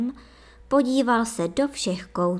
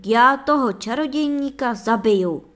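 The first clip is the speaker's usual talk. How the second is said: loud, higher defiant cry; exclaiming; 4 semitones higher, 6 dB louder than usual. A narrator's reading. Vítek cries out to the princess that he will kill the sorcerer. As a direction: shout it out as a vow. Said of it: "vykřikl Vítek".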